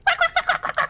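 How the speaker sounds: high squeaky ribbit, croaked fast; frog croak. Acted. Frightened frog croaking at the giant. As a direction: croak like a panicked little frog. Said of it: "就开始叫".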